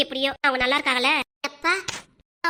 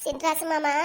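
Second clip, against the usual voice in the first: tearful whine; slower than usual. Acted. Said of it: "ஏன்டி தங்க அழுவுற".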